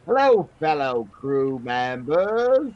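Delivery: Cockney sailor greeting; Cockney accent. Acted. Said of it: "Stay in it".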